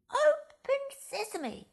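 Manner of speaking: high, loud, slow call; fox's cry. Acted. Ali calls to the rock, high and loud. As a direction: cry out high and bold like the fox. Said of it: "he cried".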